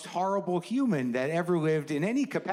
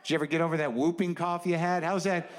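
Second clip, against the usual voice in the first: escalating comedy rant. Acted. Sarcastic rant at anti-vaxxers.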